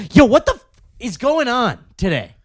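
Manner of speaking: loud, high mock outburst; screaming freakout. Salesman to the whole floor over a rejection email, mock screaming. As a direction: imitate a coworker blowing up at the room. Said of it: "he would just scream that".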